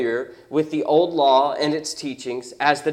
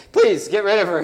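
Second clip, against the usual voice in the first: exasperated; 4 semitones higher, 4 dB louder than usual. Acted. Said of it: "now she's yelling at us".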